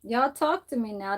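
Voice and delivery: imitating him. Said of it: "That's how he says it".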